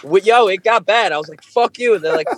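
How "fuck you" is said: high mock yell; mock angry. Retelling a fight with the band, high mock yell. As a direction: fling it back in mock anger.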